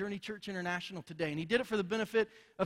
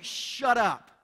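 loud, higher retold command; forceful silencing; 4 semitones higher, 9 dB louder than usual. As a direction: cut the protest off with a shout. Jesus cuts off Martha's protest.

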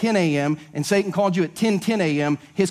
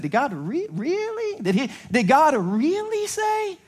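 'really' squeaked up high, slow and mocking; passive-aggressive Satan; 10 semitones higher, slower than usual. Shown as a demonstration. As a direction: sneer the question like you already know the answer. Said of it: "say it in a passive-aggressive way".

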